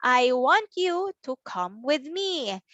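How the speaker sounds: the sentence joined up, still measured; whole-sentence reading. Shown as a demonstration. Teacher repeats the whole sentence, joined up. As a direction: read it as one careful phrase. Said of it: "That's our sentence".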